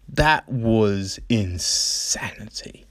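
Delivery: hushed, slow whisper of awe; slow hushed whisper of amazement; awed whisper. Real, not acted. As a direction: breathe it out in disbelief. Awed hush about the fight.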